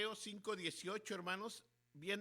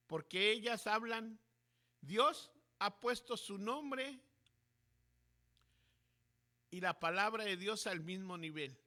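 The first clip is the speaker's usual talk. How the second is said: emphatic preaching; 7 dB louder than usual. Acted. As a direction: drive the point home to the congregation. Preacher rises to emphatic point.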